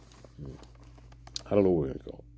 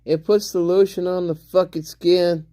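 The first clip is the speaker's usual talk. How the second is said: Buffalo Bill; 6 semitones higher than usual. Acted. Streamer spoofing a lotion ad as the movie killer, strange high accent. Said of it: "the kind of accent that Buffalo Bill has".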